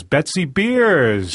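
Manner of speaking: name stretched out slowly in welcome; announcer's introduction. Real, not acted. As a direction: draw out the guest's name. Host announces the guest's entrance.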